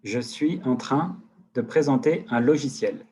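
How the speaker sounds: slow, loud, deliberate words for the microphone; slow dictation. Shown as a demonstration. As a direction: spell it out slowly so the software catches it. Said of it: "Il m'écoute encore?".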